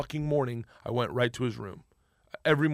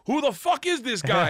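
retold outburst; 10 semitones higher, 3 dB louder than usual. Boss's amazed outburst, acted.

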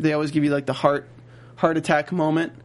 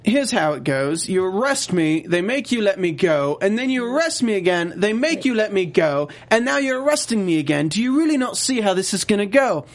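smug Jermaine; 3 semitones higher than usual. Retold or imitated. Jermaine taunts the agent, smug and building. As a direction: lay it out like a smug suspect. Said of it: "He's like".

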